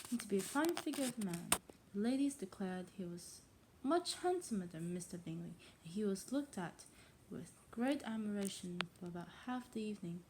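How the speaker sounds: put-on reading aloud in a tentative English accent; attempted English accent. Untrained reader trying a classic novel, English accent. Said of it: "how to say that in English accent".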